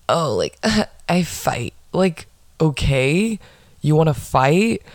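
lightly mocking, drawn-out pick-me voice; mock pick-me girl. Mocking women who wrestle in front of men, mock pick-me girl. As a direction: put on a slow pick-me act. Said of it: "it gives me huge pick me vibes".

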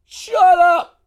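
sudden loud yell to shut them up; shout. Real, not acted. Yelling at the barking dogs to shut up. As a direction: bark it out at full volume.

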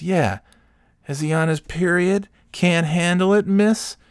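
high, rising mock questions; taunting bartender. Bartender needling a woman about her friend, taunting.

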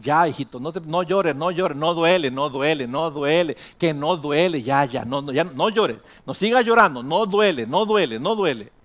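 put-on insistent parent hushing a child; padre que niega el dolor. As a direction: repeat it in a pressing singsong rhythm. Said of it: "Pero no le vas a decir". (papá que acalla al hijo con insistencia)

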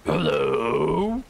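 long drawn-out hello, rising at the end; calling out. A narrator's reading. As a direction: bear hailing strangers across a creek. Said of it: "bears will call across the creek".

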